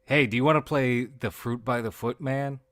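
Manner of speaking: mock villain with a loud sales-pitch invitation.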